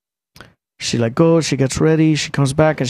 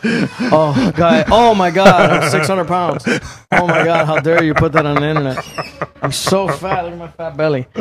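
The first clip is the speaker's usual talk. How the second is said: hammed-up dismay, pitched up; mock horror; 2 semitones higher than usual. Real, not acted. Reacting to his fat photo, mock shocked wail.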